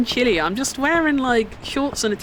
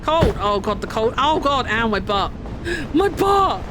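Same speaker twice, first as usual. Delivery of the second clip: pained yelps after a fall; ow, landing hard on the snow; tripping and falling. Real, not acted. Falls, cries about his butt.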